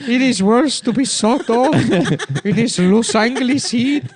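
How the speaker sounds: very high, slow, loud complaining; squeaky little man. Acted. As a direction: whine it in a tiny high voice.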